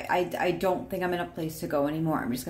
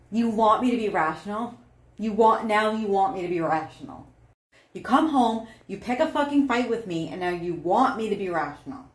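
raised, mocking repeat of the request; sarcastic anger. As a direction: throw the word back, heated. Acted angry partner in demo.

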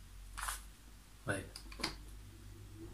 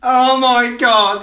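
drawn-out, helpless laughing 'oh my God'; crying with laughter, slow; laughing hard; 6 semitones higher, 6 dB louder, much slower than usual. Real, not acted. Streamer cracking up at clip.

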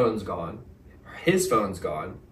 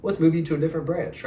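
higher, breezy fake sympathy; mock corporate PR; 6 semitones higher than usual. Mocking hotel staff's canned reply, a fake-sympathetic voice. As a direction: parody a hollow customer-service voice. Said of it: "the same corporate P R response".

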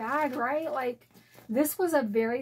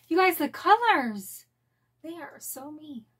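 excited gush; 3 semitones higher than usual. Real, not acted. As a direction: rave about the colors with real delight. Admiring the bag's colors, again.

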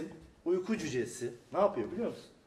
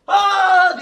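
a high, much louder yelp "Aa!"; sudden shout; 22 dB louder than usual. Retold or imitated. Barış jumps out from under the bed and yells at the dwarf, a loud high shout. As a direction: yell out of nowhere to startle him. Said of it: "diye bir bağırıyor".

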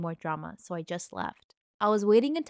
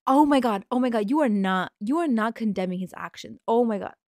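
outraged; 3 semitones higher, 6 dB louder than usual. Real, not acted. Outraged reaction to story.

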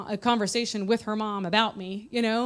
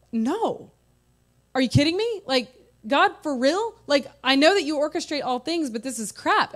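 higher, louder indignant outburst; exasperated, raised complaint to God; retold anger at God; 5 semitones higher, 4 dB louder than usual. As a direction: vent at God, raised and upset. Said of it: "honestly just angry at God".

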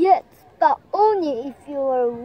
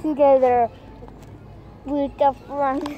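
grandpa voice; 3 semitones lower than usual. Pretend. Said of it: "할아버지, 할아버지 목소리로".

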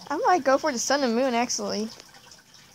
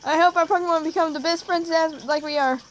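lightly voiced, higher game character; 4 semitones higher than usual. Player reading a friend's line in the game, light character voice.

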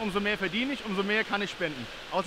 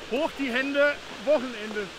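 party call; 3 semitones higher, slower than usual. Real, not acted. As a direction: shout it to the crowd like a DJ. DJ party call from the ice bath. (lauter Partyruf)

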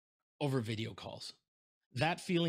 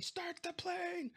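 high, slow put-on movie voice; drawn-out mock hero line, much higher; slow, high imitation of a movie hero; Indiana Jones quote; 4 dB quieter, much slower than usual. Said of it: "where he's like".

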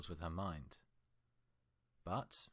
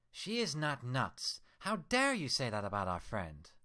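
outraged; 6 semitones higher, 7 dB louder than usual. Acted. Twilight defending Pinkie to her reflection, outraged. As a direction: defend her friend fiercely.

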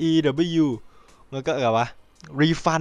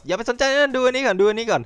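much higher, eager salesman voice; mock distracting pitch; 10 semitones higher than usual. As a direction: wave them off the real story, pushing the other thing. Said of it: "เบี่ยงความสนใจอะ แบบ". (เสียงสูงล้อเลียนพยายามเบี่ยงความสนใจ)

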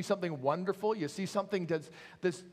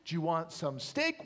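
friendly butcher; 3 semitones higher than usual. Acted. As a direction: coax the dog like a pet. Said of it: "the butcher ... looks down and says".

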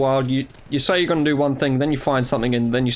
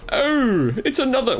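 silly voice; 10 semitones higher than usual. Pretend. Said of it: "why am I talking like this?".

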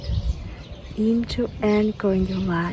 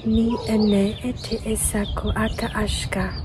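whispered light language. Acted. Channelled light language chant.

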